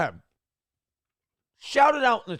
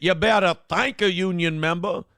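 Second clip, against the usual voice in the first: syrupy voice. Retold or imitated. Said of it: "like she was syrup on pancakes".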